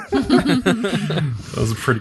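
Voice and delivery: amused and laughing; laughing through the words. Real, not acted. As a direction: say it through a lingering chuckle. Laughing after the sleepy joke.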